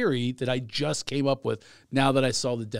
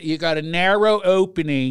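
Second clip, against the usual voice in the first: a light Philly accent, a bit louder; 5 dB louder than usual. Shown as a demonstration. Friend suggests saying it in a Philly accent. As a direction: say it the Philly way, tough and casual. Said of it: "You could do it in a Philly accent".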